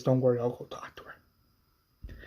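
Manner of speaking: whispered reassurance. Retold or imitated. Quiet reassurance.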